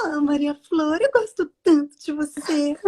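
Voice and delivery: sweetly playing a fairy-tale princess; voz de princesa. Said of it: "a princesa fala com uma voz de princesa". (voz de princesa de desenho, doce e leve)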